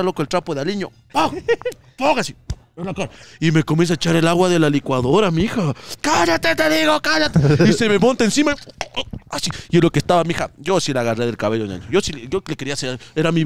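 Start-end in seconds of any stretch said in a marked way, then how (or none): 6.0-7.4 sustained high mock-angry yell; furious mother, imitated. Mother silencing daughter mid-attack, high angry imitation. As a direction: scold high, replaying a mother's rage.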